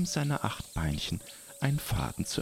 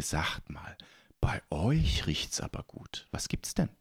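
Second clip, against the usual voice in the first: whispering; 5 semitones lower than usual. Acted. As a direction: whisper it like a secret. Spider asks about smell.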